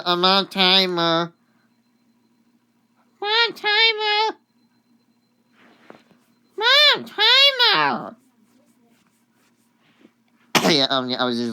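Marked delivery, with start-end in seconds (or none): 0.0-1.3 raised voice, higher and slower; louder, drawn-out call. Real, not acted. Calls out about a timer. 3.2-8.2 very high, loud yell; real high-pitched, drawn-out shout; yelling for mom. Real, not acted. Yells for mom as timer runs.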